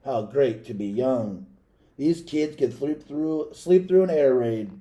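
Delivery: put-on slow, wistful old policeman; musing fondly about sleeping youth; slow and wistful, lightly voiced; wistful sigh. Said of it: "he sighed".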